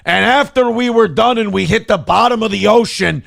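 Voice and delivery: high, slow puppet frog voice; drawn-out high frog puppet voice; Kermit the Frog. Pretend. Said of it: "That's a good Kermit the Frog impression".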